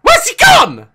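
startled where's-he-gone yell. Real, not acted. Lost the baby in game.

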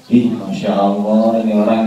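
quick everyday "Masya Allah" on meeting someone; offhand spoken "Ih, Masya Allah", not chanted; casual exclamation. Retold or imitated. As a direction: toss it off like greeting a person. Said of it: "kita baca Masya Allah kalau ketemu orang".

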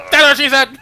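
high, loud mock blurt; sitcom catchphrase outburst. Imitating the Office character who finally gives in, shouted outburst. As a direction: burst out with it, imitating the sitcom boss. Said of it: "then he goes".

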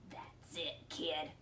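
low, soft, gruff monster; hushed grunting creature voice; grunted. A narrator's reading. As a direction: grunt it low under your breath. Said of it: "he grunted".

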